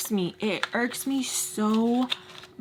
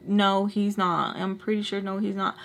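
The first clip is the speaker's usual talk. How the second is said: retold skeptical pushback in an even voice; firm contradiction. Speaker disputing her friend's claim, firm contradiction. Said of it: "And I'm like".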